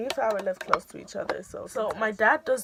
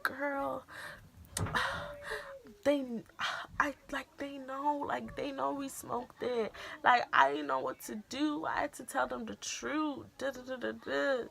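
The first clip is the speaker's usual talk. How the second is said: soft, pitched up quiet explanation; hushed excuse; 6 semitones higher, 8 dB quieter than usual. Retold or imitated. Girl excusing herself to her friend, hushed. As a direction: explain it softly to your friend.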